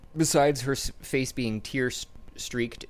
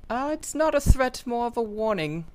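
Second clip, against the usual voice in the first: put-on creepy little girl; 4 dB louder than usual. GM voices demon girl.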